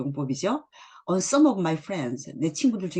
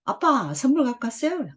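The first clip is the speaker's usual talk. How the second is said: put-on little kid; 9 semitones higher, 3 dB louder than usual. Child asks father for presents.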